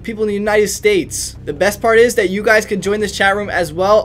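upbeat hype announcer selling his Discord; ad read. Acted. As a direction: sell the chat room like a radio spot. Channel promo read over music.

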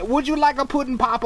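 quick, sing-song hint of Cosby; Cosby pudding pop voice. Player offering pudding pops to ogres in Cosby voice. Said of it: "Bill Cosby freaks me".

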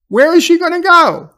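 can't believe it; incredulous real rant; real exasperation. Real, not acted. Speaker outraged at the scene.

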